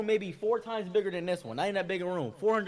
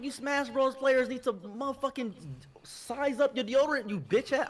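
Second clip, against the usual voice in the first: slow, high, exasperated telling-off; pissed-off scolding; 9 semitones higher than usual. Retold or imitated. Panel host telling gamers to use deodorant, pissed off. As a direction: scold them with drawn-out exasperation. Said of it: "I was so pissed".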